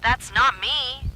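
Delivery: high, loud, slow, stressing not. A narrator's reading. Zoe crying out against her double, desperate. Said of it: "louder this time".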